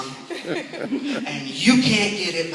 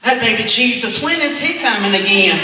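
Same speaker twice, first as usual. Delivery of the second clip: sheepish cover-up; 5 semitones higher, 8 dB louder than usual. Retold or imitated. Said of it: "covering his blunder".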